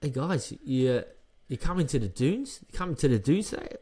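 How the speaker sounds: put-on rough Australian accent, lifting at question ends; attempted Australian accent. Fighter's team inviting him to the dunes, attempted Australian accent. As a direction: do a shaky-aim Australian accent that lands near South African. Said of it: "So do the accent".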